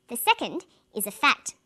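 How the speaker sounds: whispered aside, no voice. Shown as a demonstration. Teacher reading example lines.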